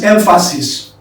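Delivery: "emphasis" starting EM, as in hem; open E in emphasis. Shown as a demonstration. Teacher contrasting two words, "emphasis" begun with EM. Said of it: "But the second one is not emphasis".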